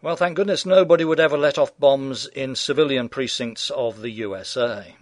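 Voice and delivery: sarcastic sneer on thank goodness nobody; heavy sarcasm. Real, not acted. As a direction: lay the irony on thick. Ironic turn on US bombers.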